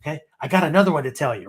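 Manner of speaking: lightly voiced eager little grandson; a hint of an eager kid; excited grandson. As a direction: imitate a child rushing in with a joke. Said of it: "my grandson comes in".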